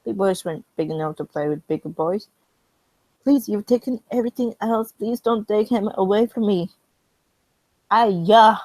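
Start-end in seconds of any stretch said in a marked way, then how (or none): 3.2-6.7 loud, higher, begging; desperate pleading. Acted. China begging England to keep Hong Kong. 7.9-8.6 strained voice. Real, not acted. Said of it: "Why do I sound like that".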